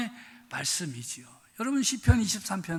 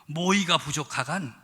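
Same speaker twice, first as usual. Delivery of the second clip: "모이가 부족하간" said first with a plain falling Pyongan question; a Pyongan "부족하간", falling at the end; Pyongan dialect; 4 semitones lower than usual. Retold or imitated. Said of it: "평안도 버전은 어떻게 됐나?".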